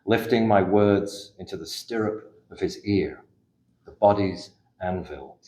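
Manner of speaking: measured, unhurried poem reading with pauses between lines; poetry reading. Acted. Poet reading her own poem aloud to a live audience, measured and reflective. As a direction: read each line slowly and let it settle. Reads poem about father's hearing aid.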